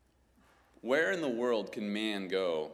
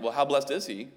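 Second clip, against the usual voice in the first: as a question; 5 semitones higher, 6 dB louder than usual. Shown as a demonstration. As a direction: ask it as a real question. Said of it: "if you asked it as a question like".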